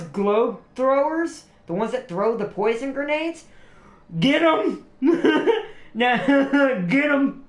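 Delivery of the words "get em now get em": excited cheer. Real, not acted. Cheering on poison globe throwers.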